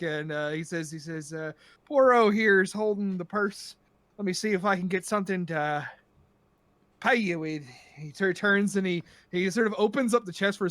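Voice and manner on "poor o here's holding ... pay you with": lightly voiced Irish brogue; tipsy pirate with a hint of Irish accent. Drunk pirate looking to pay, light Irish accent. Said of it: "how bad my Irish accent is".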